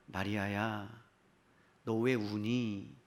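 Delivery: soft, low, slow questioning; gentle rebuke. Acted. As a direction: chide her tenderly, drawing the words out. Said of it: "예수님의 부드러운 책망의 말씀이에요". (부드럽게 책망하듯)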